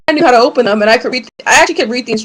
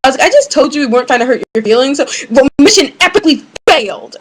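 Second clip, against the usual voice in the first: mocking him; 3 semitones higher than usual. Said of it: "but he's like".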